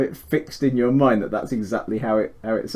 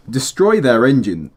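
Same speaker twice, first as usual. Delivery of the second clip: voice line read; 5 dB louder than usual. Shown as a demonstration.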